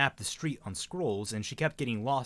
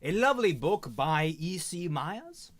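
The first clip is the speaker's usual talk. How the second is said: put-on posh accent; 3 semitones higher than usual. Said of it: "stop talking in this posh accent".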